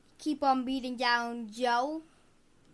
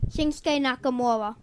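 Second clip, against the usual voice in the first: into the mic. Real, not acted. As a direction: speak up into the microphone. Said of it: "You gotta talk into the microphone".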